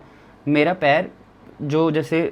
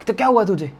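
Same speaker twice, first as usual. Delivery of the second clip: higher, louder angry demand; 6 semitones higher, 4 dB louder than usual. Retold or imitated. Friend angrily asks the injured narrator what happened. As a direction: demand it angrily, shocked by his face. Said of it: "एकदम गुस्से से बोलता है".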